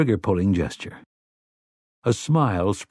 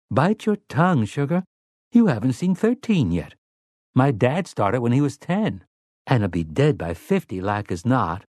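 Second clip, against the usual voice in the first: stern; 4 semitones higher than usual. Acted. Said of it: "Susanna said sternly".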